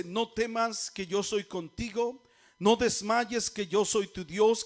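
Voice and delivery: slow, emphatic scripture reading. Real, not acted. Preacher reading God's promise to congregation, emphatic proclamation. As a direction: proclaim the verse slowly, weighting each phrase.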